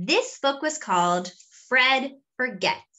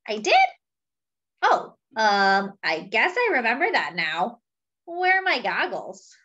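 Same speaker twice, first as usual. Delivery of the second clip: forgetful elephant; 2 semitones higher than usual. Acted. Fred the elephant agreeing with Monkey, lightly voiced and muddled.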